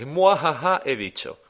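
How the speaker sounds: sneering panto villain. Retold or imitated. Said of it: "de fondo pensando".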